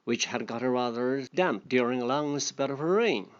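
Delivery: a lightly voiced storybook reading; story reading. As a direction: read the fable aloud to the class. Reading fable aloud to learners.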